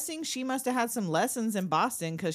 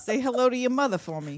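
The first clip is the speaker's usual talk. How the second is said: laughing Bostonian catchphrase; Boston vowels through giggles; mock Boston accent. Co-host extending the Boston bit, in a laughing mock Boston accent.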